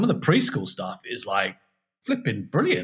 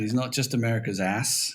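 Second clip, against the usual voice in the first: put-on a light, offhand American accent on "America's ass", the a of "ass" short and flat; a British guest slipping briefly into American for the joke; 3 dB quieter than usual. Guest jokes to the hosts in a mild American accent. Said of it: "That was my American accent".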